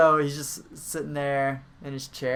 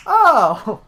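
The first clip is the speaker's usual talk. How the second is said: sudden oh; 11 semitones higher, 14 dB louder than usual. Pretend. Mock realization exclamation.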